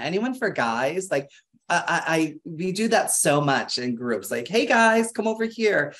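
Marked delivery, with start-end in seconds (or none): 4.5-5.9 casual call. Shown as a demonstration. Calling a group over.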